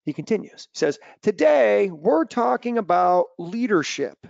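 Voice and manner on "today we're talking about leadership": imitating a speaker reading aloud, higher and louder; mock reading from notes, drawn-out ending; stilted speech reader. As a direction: announce the topic stiffly, word by word. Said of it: "Is this guy gonna read to us".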